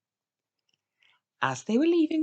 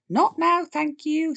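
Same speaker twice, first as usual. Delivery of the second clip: loud, higher not now; firm brush-off; 9 semitones higher, 7 dB louder, slower than usual. A narrator's reading. Grandpa hanging up on a salesman, loud and firm. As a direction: cut the salesman off sharply.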